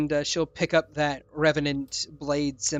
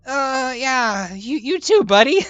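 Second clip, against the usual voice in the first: higher, hesitant, then louder on buddy; reluctant high voice, building louder; awkward reply; 8 semitones higher, 5 dB louder, slower than usual. Acted. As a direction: humor the clingy creature awkwardly. Gray awkwardly answering Gustav.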